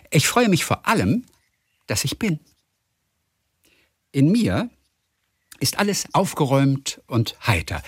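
langsam und feierlich, mit Pausen; Gedichtvortrag. Acted. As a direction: trag das Gedicht ruhig und heiter vor. Trägt Mascha-Kaléko-Gedicht vor. (Gedicht langsam und getragen vorgelesen)

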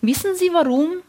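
a hint of a conspiratorial old woman. A narrator's reading. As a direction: let her share a sly secret. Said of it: "Ihre Stimme klang verschwörerisch".

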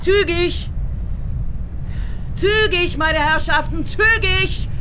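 high, insistent hurrying of the traffic; impatient urging. Acted. Driver urging traffic along. (ungeduldig und hoch, treibt den Verkehr an)

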